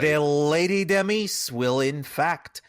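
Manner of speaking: slow, hammed-up Franco-Swedish accent; Swedish-French hybrid accent. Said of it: "this weird Swedish French hybrid accent".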